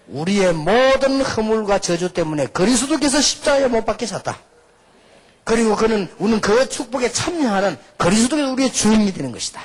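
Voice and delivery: loud, high preaching at full force; forceful proclamation. Acted. Preacher declaring the message to congregation, forceful proclamation. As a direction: declare it solemnly with a high, ringing push.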